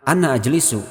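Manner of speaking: "ana" with a short last vowel, linked into "ajlisu". Shown as a demonstration. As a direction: run "ana" straight into "ajlisu" without holding it. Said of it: "ananya pendek karena wasol".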